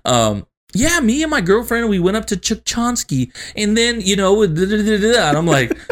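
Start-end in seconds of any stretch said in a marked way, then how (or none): 0.7-5.3 imitating mom. Mom voiced mid-conversation.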